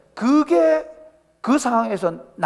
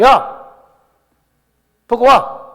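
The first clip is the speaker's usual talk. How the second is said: loud, higher blunt shout across the room; rude bathhouse yell; 5 semitones higher, 8 dB louder, much slower than usual. Retold or imitated. Korean men at the bathhouse confront the towel-wearer, loud rude yell. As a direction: bark it openly at the stranger. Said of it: "아니면 대놓고".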